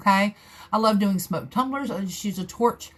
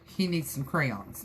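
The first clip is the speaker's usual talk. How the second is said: sarcastic; 4 semitones lower, 4 dB quieter, slower than usual. Retold or imitated. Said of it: "I'm being sarcastic and saying".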